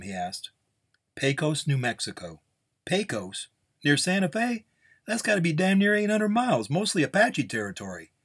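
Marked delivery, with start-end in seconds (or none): 1.2-8.1 incredulous gunslinger. Acted. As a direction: balk at the distance, pitch jumping up. Gunslinger balks at the distance.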